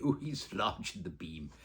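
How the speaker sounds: slow, laughing, lightly genteel mum; a hint of a refined mother, slowed down; imitating mum. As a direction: drawl it like mother used to. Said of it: "as my mother would say".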